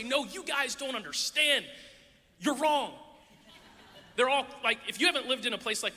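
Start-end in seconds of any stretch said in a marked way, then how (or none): 0.0-2.9 exasperated protest. Retold or imitated. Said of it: "but I wanna say".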